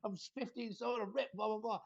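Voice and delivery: high, fast, outraged protest; a hammed-up bodybuilder taking offence; indignant mock outburst. Mocking his own indignant reaction.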